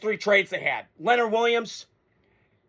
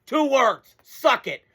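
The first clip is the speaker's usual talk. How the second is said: defiant jab; 2 semitones higher than usual. Real, not acted. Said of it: "I wanna say this about Sam Darnold".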